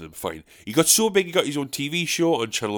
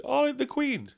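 mock heckler; 13 semitones higher, 5 dB quieter, slower than usual. Imitated heckler answer.

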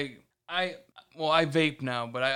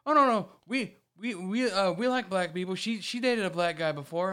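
flustered dad voice, higher; dad defending himself; 5 semitones higher than usual. Retold or imitated. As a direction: panicky backpedaling dad. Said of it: "her dad is sitting there going".

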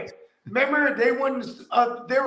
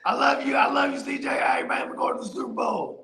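thief shouting love; 5 semitones higher than usual. Retold or imitated.

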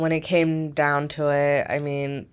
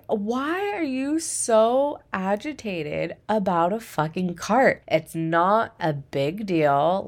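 slow, incredulous retort; exasperated; 3 semitones higher, slower than usual. Retold or imitated. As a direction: spell out how silly it is. Speaker's own retort to customer.

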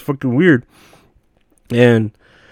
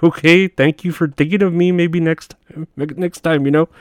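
awkward polite decline; 5 semitones higher than usual. Retold or imitated. Polite awkward reply to coworker.

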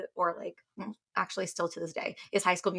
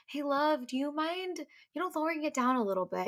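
polite request; 6 semitones higher than usual. Retold or imitated. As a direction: gently ask a favour of your love. Retelling polite request to husband.

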